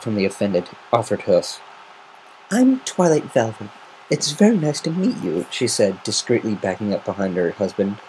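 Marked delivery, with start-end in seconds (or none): 2.5-5.5 higher, nervous mother voice; lightly voiced nervous mare; Twilight Velvet voice. Nervous mother greets big pegasus.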